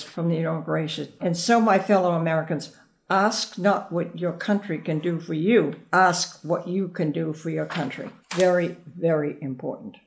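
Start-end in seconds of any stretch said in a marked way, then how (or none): 1.2-8.1 reciting the famous line. Shown as a demonstration. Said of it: "this is the famous line which everybody remembers".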